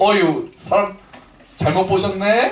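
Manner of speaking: slow, drawn-out, put-on Seoul standard accent. Recalling an old comedy bit of Gyeongsang people trying Seoul speech, mock Seoul accent. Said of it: "이거 서울, 흉, 서울말 흉내내는 건데".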